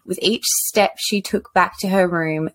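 even read-aloud voice; measured literary reading; story narration. Acted. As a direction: read it as a solemn book quote. Reads book quote aloud.

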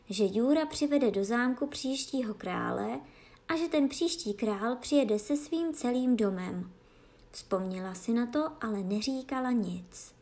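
ordinary delivery, nothing marked

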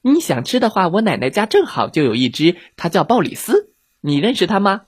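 put-on high, quick-witted child's voice; clever little girl. Red Riding Hood fending off the hungry wolf, high and clever.

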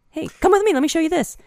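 high, bright, inviting voice; dreamy invitation. Retold or imitated. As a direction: lure them along sweetly. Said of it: "And then".

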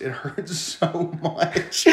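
hurt so much dissolving into giggles; laughing. Real, not acted. Laughing while retelling pain.

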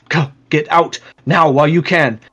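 a touch of alarm; urgent guard. Acted. Guard ordering people out, mildly urgent. Guard voiced urging escape.

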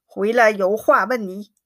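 quick, mildly stern order; a touch of an angry father's command; sharp command. Acted. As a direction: bark it out fast but understated. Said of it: "一面喝令".

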